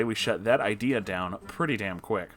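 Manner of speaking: plain reading voice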